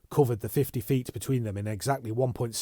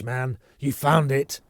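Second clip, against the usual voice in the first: defiant taunt; 2 semitones higher, 6 dB louder, slower than usual. Acted. Foyle defiant while beaten.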